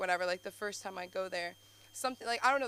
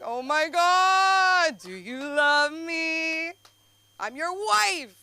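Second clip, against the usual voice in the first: high, loud, drawn-out theatrical wail; mock sobbing; 9 semitones higher, 11 dB louder, much slower than usual. Sobbing along to Fiddler on the Roof, mock heartbroken wail. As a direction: wail it out slowly, hammed-up heartbreak. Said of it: "So I was sobbing watching Fiddler on the Roof".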